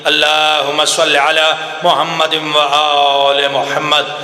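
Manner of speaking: low, measured chanted recitation; slow reverent Arabic recitation; Quran recitation. Acted. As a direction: recite calmly and devoutly. Quranic recitation after sermon.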